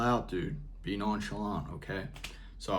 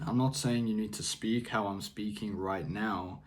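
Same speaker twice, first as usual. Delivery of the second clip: calm monotone; 4 dB quieter than usual. Real, not acted. Vlogger describing his own grounded speaking voice, softer monotone. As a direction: keep it level and unbothered, softer. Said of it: "almost monotone".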